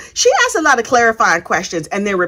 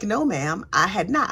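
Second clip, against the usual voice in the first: soft, sheepish denial; quiet mock sheepishness; meek cop; 3 semitones lower, 7 dB quieter than usual. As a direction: say it small and caught out. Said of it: "And he was like".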